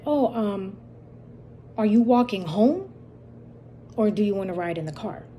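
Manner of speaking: mildly overdone fake-polite offer; mock-nice offer with a hint of a dare; exaggerating tone. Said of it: "said this in an exaggerating tone".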